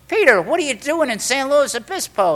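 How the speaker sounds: high-pitched, delighted surprise; surprised greeting. Retold or imitated. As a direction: greet an unexpected friend in amazement. Sponsor surprised to see him.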